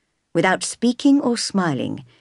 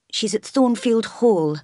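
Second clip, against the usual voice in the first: higher, feeble-voiced reply; timid, weakened higher voice; weak voice; 4 semitones higher than usual. A narrator's reading. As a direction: answer weakly, pitched up. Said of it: "replied Mason in a weak voice".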